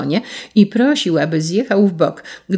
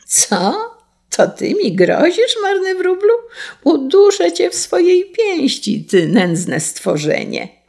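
rear up indignantly, then grind out the insult; scornful outrage; 12 semitones higher than usual. A narrator's reading. Carter threatens the puny sparrow, scornful outrage.

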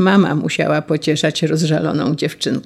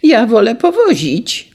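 put-on boy calling out; 6 semitones higher, 4 dB louder than usual. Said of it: "zawołał Franio".

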